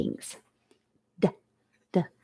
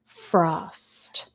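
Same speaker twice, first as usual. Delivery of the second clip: softer repeat; 2 semitones lower, 7 dB quieter than usual. Shown as a demonstration. Teacher repeats the spelling word, softer and quieter. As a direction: repeat frost, a bit softer. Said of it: "number six is frost".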